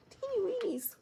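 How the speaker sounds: breathy high whisper of delight; whispered, fond of the tiny skeins; cute whisper. Real, not acted. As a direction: coo it like something tiny and adorable. Cooing over tiny yarn skeins.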